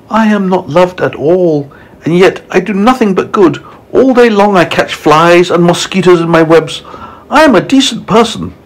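high-pitched, wronged storybook spider; high, indignant lady spider; aggrieved Miss Spider. Acted. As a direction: plead your good name in a high voice.

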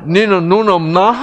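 loud, laughing Gyeongsang dialect snap; 경상도 사투리로 툭 내뱉듯이; gruff Gyeongsang retort. Retold or imitated. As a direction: blurt it like a blunt Gyeongsang husband. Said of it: "경상도 남자 입에서".

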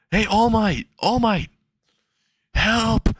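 high-pitched, pleading call; calling for help. Acted. Character calls hero for help.

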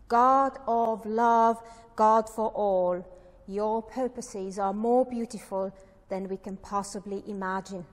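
deliberate, emphatic opening address to God; solemn, projected prayer reading. Real, not acted. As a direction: read a church prayer out firmly, phrase by phrase. Reads out a written prayer.

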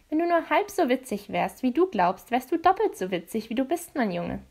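lightly voiced madame with a mild scolding edge; hint of a tart put-down; leicht gespielte Dorothea. Madame Dorothea rebukes Jace. (leicht tadelnde Madame)

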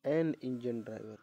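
every word spaced out slowly; slow, deliberate reading. Shown as a demonstration. Teacher reading the answer sentence slowly to pupils. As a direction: read the answer out slowly for the class. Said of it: "क्या आ जाएगा?".

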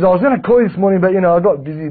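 mock agent excuse. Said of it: "That's what he said to me".

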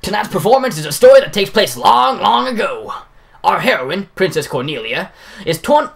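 lightly voiced booming troupe boss; Baku voice. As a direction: announce to the crowd like a showman. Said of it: "my Baku voice".

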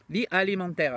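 mock German accent; Karl Lagerfeld. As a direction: put on a German-accented French voice. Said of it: "c'est carrément Karl Lagerfeld qui arrive".

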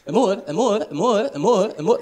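high whiny repeated amor o que é que se passa; nagging girlfriend. Retold or imitated. Girlfriend pestering him in the car, high whiny nag.

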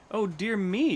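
high, loud storybook wail; wail of despair. A narrator's reading. Hornbill wakes to a strange sight, wailing in despair. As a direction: cry it out in hammed-up dismay. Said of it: "cried with a wail of despair".

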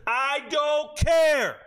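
slow, drawn-out mock yell; shout. Telling his girlfriend to get out, shouting slowly. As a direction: bellow it out, every word stretched.

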